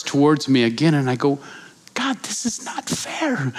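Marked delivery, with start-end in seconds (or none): 1.9-3.5 panicked plea. Retold or imitated. Panicked plea while being attacked.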